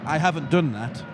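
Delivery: lightly put-on posh English; posh accent. Shown as a demonstration. Translating Yorkshire dialect for a mate, posh accent. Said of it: "that's my posh accent".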